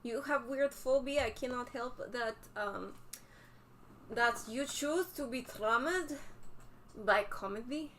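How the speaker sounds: playful fake Russian accent. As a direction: keep up the silly Russian accent. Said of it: "speak in a ridiculous Russian accent".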